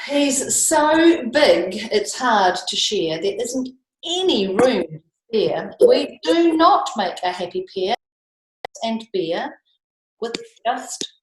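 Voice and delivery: put-on slow, lilting read-aloud for children; storybook reading. A narrator's reading. Teacher reading the rhyming book to the children, lilting and slow. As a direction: read the rhyme to the class with relish.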